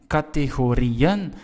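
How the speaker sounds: Categorieën slowly, RI stressed, then a separate "en"; separate final syllable. Shown as a demonstration. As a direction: keep "ri" and "en" apart in Categorieën. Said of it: "we have to pronounce I, E, and E, N separately".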